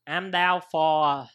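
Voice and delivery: slow, lightly Vietnamese-accented phrase. Shown as a demonstration. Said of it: "yeah, it's in Vietnamese accent".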